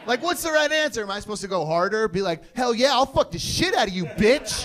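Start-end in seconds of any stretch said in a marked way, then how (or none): 2.6-4.7 mock tough retort. Imagines going harder at sergeant.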